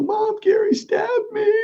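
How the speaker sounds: very high, drawn-out imitated wail; crying child's wail. Stabbed kid crying to his mom, high wail. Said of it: "I'm fucking crying".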